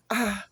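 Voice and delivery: pained scream. Acted. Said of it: "Cameron screams".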